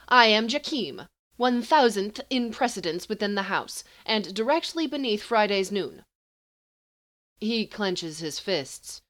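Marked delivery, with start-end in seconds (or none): 0.1-6.0 higher, louder pompous self-introduction; haughty sorcerer. Acted. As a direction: announce your rank as if you own the room.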